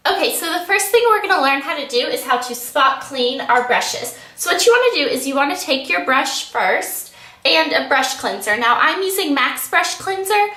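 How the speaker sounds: congested. Real, not acted. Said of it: "I sound really congested".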